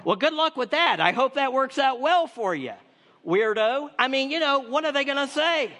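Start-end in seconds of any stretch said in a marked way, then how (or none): 0.0-3.9 higher, mock-sarcastic "good luck with that"; sarcastic brush-off. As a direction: dismiss him like a weirdo. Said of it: "they all kinda look at him like".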